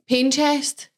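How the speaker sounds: "pain chest" slowly, sounds swapped round; slow, muddled "pain chest"; mixed-up words. Shown as a demonstration. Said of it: "I mix the, like, the letters round".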